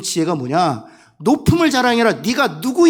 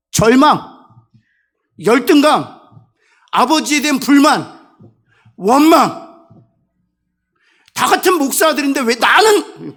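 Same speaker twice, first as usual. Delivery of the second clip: louder, each word hammered out like a blow; forceful preaching; 4 semitones higher, 6 dB louder than usual. Acted. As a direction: list the sins like a preacher at full force. Preaching on despair. (절망, 열등감을 힘주어 외치는 설교)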